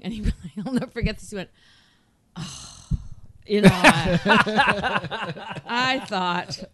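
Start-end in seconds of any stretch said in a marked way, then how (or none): 2.4-6.6 ponderous, reluctant explanation, spaced out; Spock-like husband. Retold or imitated. Husband answering wife's request for a morning kiss, Spock-like. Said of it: "he was Spock".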